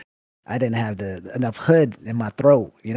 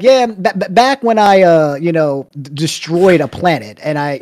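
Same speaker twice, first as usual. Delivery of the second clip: lightly parodied raconteur, higher and louder; mock storyteller; 4 semitones higher, 5 dB louder than usual. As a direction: spoof someone casually topping their own tall tales. Parodies the guest's outlandish stories.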